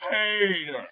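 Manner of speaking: drawn-out, falling name call; imitation of a whining call; imitating a cartoon neighbour. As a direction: stretch the name and let it slide down. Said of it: "You just nailed how he goes".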